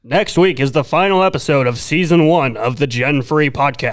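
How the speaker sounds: booming promo announcer. Pretend. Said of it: "Sounds like, like an Adult Swim".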